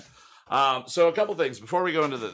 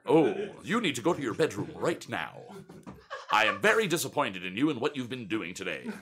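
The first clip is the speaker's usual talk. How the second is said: stern disappointed father, lightly voiced; dad voice. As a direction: scold like a let-down dad. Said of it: "do the dad voice".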